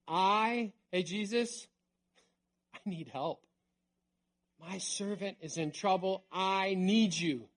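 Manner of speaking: mildly acted plea for help; understated retold cry for help. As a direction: plead in earnest, drawing out the final words. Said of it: "crying out for help".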